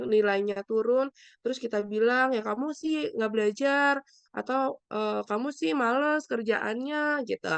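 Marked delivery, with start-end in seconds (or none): 2.4-4.0 mild mock scolding, higher pitch; higher-pitched reproach as a bad example; unempathetic blaming. Shown as a demonstration. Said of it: "Tapi kita kasih empati dulu". 5.3-7.2 mild mock scolding, drawn out and higher; slow, higher-pitched reproach; unempathetic blaming. Shown as a demonstration. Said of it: "Tapi kita kasih empati dulu".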